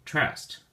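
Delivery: trast said high and breathy; isolated second syllable. Shown as a demonstration. Teacher isolating the verb's second syllable, trast, high. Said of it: "the emphasis or stress is on the second syllable".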